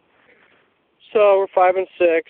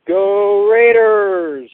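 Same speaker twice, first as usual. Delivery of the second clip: cheer; 5 semitones higher, 4 dB louder, much slower than usual. Real, not acted. Caller cheers his team.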